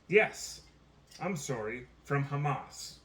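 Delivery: lightly acted self-correction; Joe Biden. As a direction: burst out the yes, then apologise haltingly. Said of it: "I'm quoting Joe Biden here".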